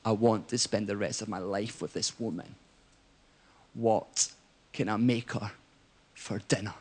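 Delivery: put-on low, soft, slurring drunk sincerity; bleary-eyed drunk mate. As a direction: mumble it like a soppy drunk friend. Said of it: "bleary-eyed, he's like".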